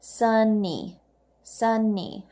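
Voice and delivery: Sunny split into two clear beats, sun-ny; sunny, slow with both syllables marked; syllable counting. Shown as a demonstration. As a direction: tap out each syllable of sunny. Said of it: "let's count the syllables".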